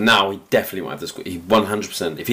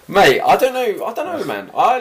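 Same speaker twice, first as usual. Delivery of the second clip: laughing; 13 semitones higher, 7 dB louder than usual. Real, not acted. Laughing at the idea of losing.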